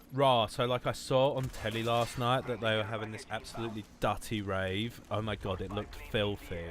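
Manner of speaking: lightly put-on southern English girl accent. Streamer mimicking English girls to chat, mock accent. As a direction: imitate a southern uni girl recounting a rave. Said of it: "That's how English girls sound".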